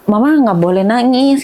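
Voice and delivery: lightly voiced child; a hint of a child's voice; imitating young daughter. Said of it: "kata gitu".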